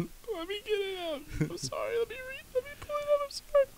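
high, soft, choked words; strained after coughing. Real, not acted. Struggling to speak to friends after coughing, choked high voice. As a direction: squeeze it out through a cough.

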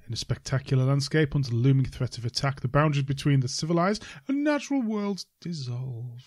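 dramatic trailer narrator read; movie trailer voice. Shown as a demonstration. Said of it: "I'll do it in my best movie voice".

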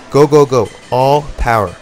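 loud, high coaching shout. Real, not acted. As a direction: pump them up, shout it out. Coach urging final push.

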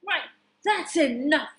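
storybook hero calling out; mild shout. Acted. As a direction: put a stop to it firmly. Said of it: "shouted Super Tata".

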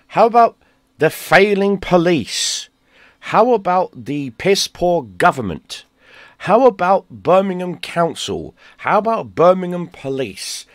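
high-pitched, exasperated list of culprits; indignant rant. Real, not acted. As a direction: hammer out each accusation, pitched well up. Ranting list of who is to blame.

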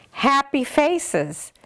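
high, slow clucky hen. Acted. The hen spots smiling faces in a slow high cluck. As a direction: drag it out like a pleased hen. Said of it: "clucked the hen".

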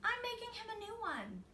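put-on high child voice; boy's reply. A narrator's reading. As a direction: answer like a sure little boy. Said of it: "Spencer replied".

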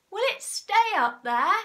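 high, loud doubting question; worried cry. A narrator's reading. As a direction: animals unsure it holds. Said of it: "they cried".

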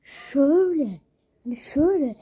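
loud, fast showing how he rode at him; loud excited show-and-tell; loud demo. Shown as a demonstration. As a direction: belt out the demo of the bike trick. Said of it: "Bak böyle yapıyor arkadaşlar".

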